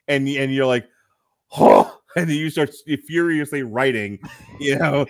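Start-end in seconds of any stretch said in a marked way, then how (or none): 1.5-1.9 a much lower, loud baffled "huh"; puzzled huh. Retold or imitated. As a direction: grunt it out like a confused viewer. Imitating a puzzled viewer.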